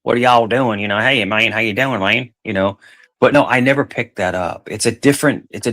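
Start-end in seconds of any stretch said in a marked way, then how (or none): 0.0-0.8 a hint of a southern y'all; light country accent. Shown as a demonstration. Showing he could sound country, in a light country accent. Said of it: "Yeah, I could do it". 1.0-2.3 mild country accent. Shown as a demonstration. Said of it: "Yeah, I could do it".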